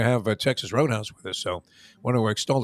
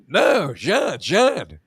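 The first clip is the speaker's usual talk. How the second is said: raised, louder pleading with the player; pleading caddie; 7 semitones higher, 6 dB louder, much slower than usual. Retold or imitated. Caddie begs the golfer not to take the driver, raised pleading. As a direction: beg him to put the driver away. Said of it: "And he's going".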